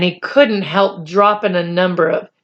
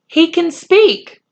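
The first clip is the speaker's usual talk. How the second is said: slow, careful admission; said slowly; 10 semitones higher, 4 dB louder, slower than usual. A narrator's reading. Omri finally telling Patrick, slow reluctant confession. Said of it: "he said slowly".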